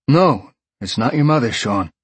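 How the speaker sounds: concerned detective on the phone; gruff detective. Acted. Detective voiced.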